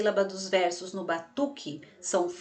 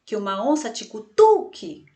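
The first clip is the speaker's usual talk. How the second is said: "cutuque" with a loud, punched TU; stress on TU; 5 dB louder than usual. Shown as a demonstration. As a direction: land hard on the TU of cutuque. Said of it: "olha como o tu sai forte". (TU de "cutuque" bem forte)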